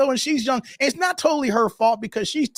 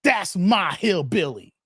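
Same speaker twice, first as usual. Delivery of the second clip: slow, lower mocking voice of a white guy; a hint of a put-on white guy; 5 semitones lower than usual. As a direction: drawl it out lazily as a mock white guy. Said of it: "white people say".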